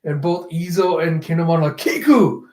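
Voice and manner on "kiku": high, falling mock cry; raised cry to an injured friend; alarmed call. Retold companions calling out in shock.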